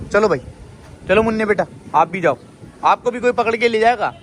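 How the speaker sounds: loud scolding. Real, not acted.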